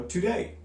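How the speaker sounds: "today" lifted high on the second syllable; light "to", rising stressed "day" in "today"; iambic stress. Shown as a demonstration. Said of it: "another one might be".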